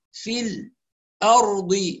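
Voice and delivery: الأرض with a brief stop on ل, no breath; sakt pause. Shown as a demonstration. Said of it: "السكت على اللام الساكنة".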